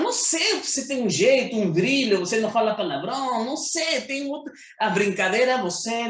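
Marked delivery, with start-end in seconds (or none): 0.0-4.5 retold answer. Retold reply about being Christian.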